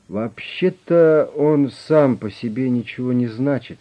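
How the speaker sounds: slow, reluctant admission. A narrator's reading. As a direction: drag the words out unwillingly. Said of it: "нехотя сказал директор".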